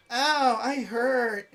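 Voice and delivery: high, whiny mock complaint of pain; hammed-up little "ow"; mock injured player. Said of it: "he leaves and he's like".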